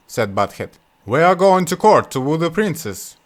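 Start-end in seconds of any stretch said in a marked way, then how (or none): 1.1-3.2 higher, louder haughty reply; haughty brother. Acted. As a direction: answer down your nose. Brothers answer Butthead.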